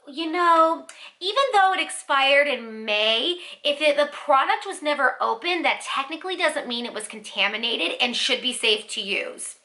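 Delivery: imitating a know-it-all supervisor; snooty attitude. Supervisor excuses the expired product to a customer, snooty attitude. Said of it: "With an attitude".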